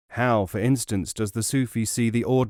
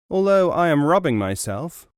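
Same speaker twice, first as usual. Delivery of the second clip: cunning; 6 semitones higher, 5 dB louder than usual. Acted. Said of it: "with great cunning".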